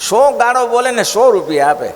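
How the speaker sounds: emphatic exclaim. Real, not acted. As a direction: proclaim it to the crowd. Preacher stresses the charan's deed. (જોરથી, ઊંચા સ્વરે ભાર દઈને)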